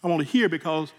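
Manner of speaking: fighting back tears, thankful; real emotion, quiet and halting; emotional gratitude. Real, not acted. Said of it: "Excuse me, I'm getting emotional".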